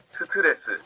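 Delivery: "스트레스" as seu-teu-re-seu; Korean pronunciation. Shown as a demonstration. Teacher telling class the Korean for stress, "스트레스" as seu-teu-re-seu. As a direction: say "스트레스" in four Korean syllables. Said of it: "Stress in Korean is".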